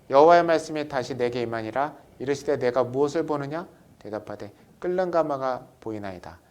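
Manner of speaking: loud, measured scripture recitation; scripture reading. Acted. Teacher leading the class in a scripture reading, loud and measured. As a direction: read it out like the pulpit Bible.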